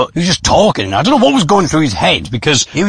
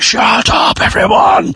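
exasperated MC shout; 8 semitones higher, slower than usual. Retold or imitated. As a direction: holler over an unruly crowd. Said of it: "the M C was like".

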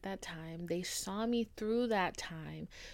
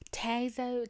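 called out; 4 semitones higher than usual. Shown as a demonstration. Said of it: "that's what we're saying".

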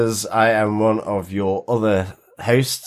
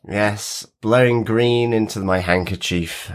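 nasal, croaky sick voice. Real, not acted. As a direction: talk through a blocked, sore throat. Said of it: "my croaky voice".

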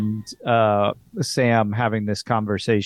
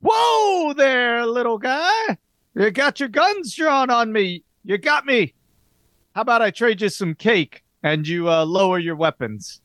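put-on high, raised startled voice of an old showman; startled old park owner; 9 semitones higher than usual. Park owner startled by a drawn pistol, high voice. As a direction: jump up in pitch, caught off guard.

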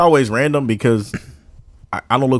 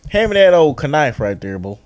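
mock Southern drawl; 2 semitones higher, 3 dB louder than usual. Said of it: "use it in a sentence".

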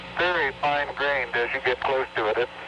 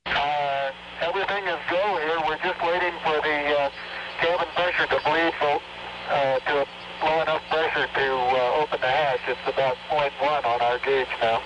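astronaut radio. Real, not acted.

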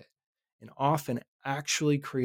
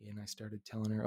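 ordinary talk, nothing marked

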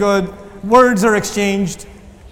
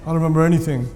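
louder mock bro voice boasting of losing control; young man excusing his rage, louder mock bravado; bro excuse; 3 semitones lower, 4 dB louder, faster than usual. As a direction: act the tough guy blaming his temper. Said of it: "And you're like".

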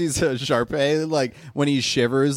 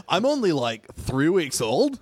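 lightly voiced dude puppy, drawn out at the end; a hint of slacker cool; slower than usual. Puppy gives its age, cool dude. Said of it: "has to be kind of a cool guy".

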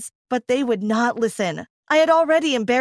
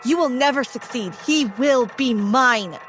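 screaming; 3 semitones higher than usual. Acted. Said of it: "I screamed".

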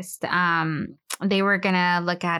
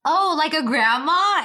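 put-on innocent child question; 6 semitones higher than usual. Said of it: "Gabriel was like".

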